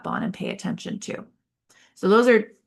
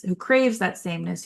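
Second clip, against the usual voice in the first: ordinary talk, nothing marked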